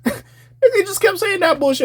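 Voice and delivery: laughing while telling it. Real, not acted. Laughing at a bad verse.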